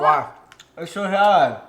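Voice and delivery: loud, high cry of surprise; sour shock. Real, not acted. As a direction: blurt it out as the sourness hits. Reacting to very sour candy.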